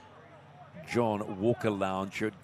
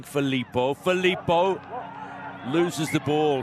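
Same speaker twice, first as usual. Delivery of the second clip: excited call; 4 semitones higher, 5 dB louder than usual. Real, not acted. Commentator calls out fumbling player.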